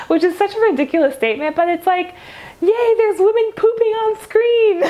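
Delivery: giggling through the words; laughing. Real, not acted. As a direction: laugh while you say it. Laughing about a funny scene.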